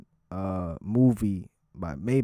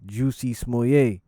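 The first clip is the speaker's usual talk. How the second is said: mock-French pronunciation, Jussie as "Juicy", Smollett as "smoo-yay"; fake French accent. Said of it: "in a fucking fake-ass French accent".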